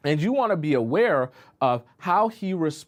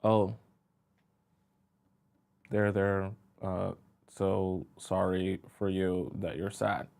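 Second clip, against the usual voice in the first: lower, softer and detached, a going-through-the-motions "there, there"; mock uncaring boyfriend; 6 semitones lower, 5 dB quieter than usual. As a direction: pat her off with empty comfort, voice dropped low and quiet. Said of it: "he just goes".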